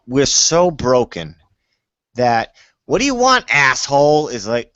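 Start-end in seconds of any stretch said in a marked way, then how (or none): 2.9-4.3 a rude New Englander's snarl, pitched way up; rude local. Retold or imitated. Mocking a rude Boston local, snapping high and loud. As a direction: throw it at a stranger like an insult.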